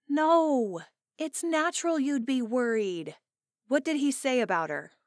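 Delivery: the bride checking in on her upset friend; high, anxious friend voice; concerned friend. Acted. Friend reassures.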